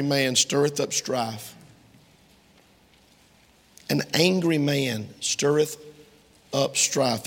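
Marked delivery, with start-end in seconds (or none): 3.9-7.2 slow. Shown as a demonstration. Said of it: "That's Proverbs twenty-nine twenty-two".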